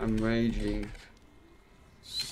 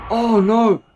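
loud, high alarmed wail; panicked player about to die; panicked cry; 12 semitones higher, 13 dB louder than usual. Real, not acted. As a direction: cry out as it goes wrong.

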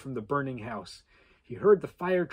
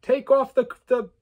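loud, higher furious demand; angry shout, much higher and louder; 11 semitones higher, 8 dB louder than usual. Acted. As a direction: order him to take it off now. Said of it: "Trevor demanded".

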